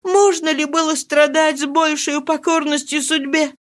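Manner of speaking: put-on high, grief-stricken young widow; despairing young woman. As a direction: pour out her despair to the old nurse. Mari's despairing voice, held high.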